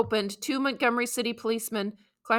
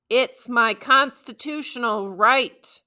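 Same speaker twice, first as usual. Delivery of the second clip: louder, slow, stretched-out protest; mild mock scream; 2 semitones higher, 6 dB louder, slower than usual. Girl being dragged off the bus, crying out her rights. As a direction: call it out, drawing out right with a rise. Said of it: "I kept screaming".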